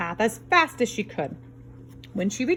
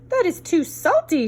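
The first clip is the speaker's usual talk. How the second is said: Goldilocks voice; 9 semitones higher, 4 dB louder than usual. Acted. Goldilocks tasting porridge.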